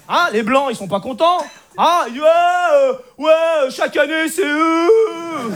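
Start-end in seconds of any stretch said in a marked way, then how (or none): 1.8-5.5 higher, drawn-out indignant whine from the audience; grumbling heckler, voice climbing; mock crowd protest. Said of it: "ça gueule".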